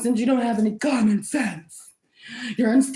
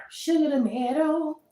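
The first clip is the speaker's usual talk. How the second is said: sweet pet talk; 4 semitones higher than usual. Shown as a demonstration. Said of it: "You gotta talk to them like Sugar tomato".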